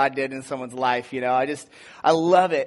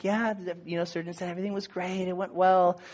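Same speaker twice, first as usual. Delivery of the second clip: sweet reassurance; 2 semitones higher, 5 dB quieter than usual. Retold or imitated. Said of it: "so sweet".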